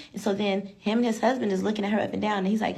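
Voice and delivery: ordinary talk, nothing marked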